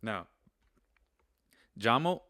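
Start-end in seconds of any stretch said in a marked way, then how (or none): 1.8-2.2 "llamo" said with a J sound, jah-mo; Spanish pronunciation. Shown as a demonstration. Teacher shows students that "llamo" starts with a J sound. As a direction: stretch the double L of "llamo" into a J. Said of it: "it's spelled with two L's".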